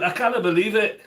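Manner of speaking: put-on Scottish accent. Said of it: "I'll slip into my Scottish accent".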